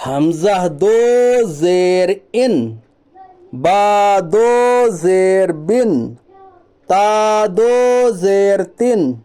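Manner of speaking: drawn-out, level chant; measured Quran-primer drill, slowly; slow spelling recitation. Shown as a demonstration. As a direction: stretch each long vowel evenly. Drills the letters in recitation style.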